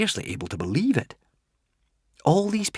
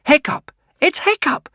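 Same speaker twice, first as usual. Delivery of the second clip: much higher, louder cheering; excited cries; 6 dB louder than usual. Acted. Dragon markers cheering Hiccup's return, high excited cries. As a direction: shout his name in wild joy. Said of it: "cried the dragon markers".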